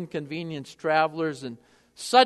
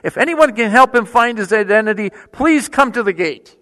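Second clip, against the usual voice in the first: louder, clear airport loudspeaker call; public address announcement; 10 dB louder than usual. Retold or imitated. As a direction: announce it to the whole terminal, deadpan. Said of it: "she broadcast throughout the terminal".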